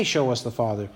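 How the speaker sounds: Jesus gently rebuking Philip's request; incredulous echo. Retold or imitated. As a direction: hand Philip's words back in disbelief. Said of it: "How do you say".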